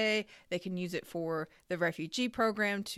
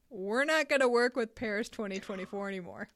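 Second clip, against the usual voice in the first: acted outrage, higher and louder at the end; indignant quote; 4 semitones higher, 6 dB louder than usual. Host voices furious French hoteliers quitting, indignant. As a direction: build to a loud, emphatic refusal.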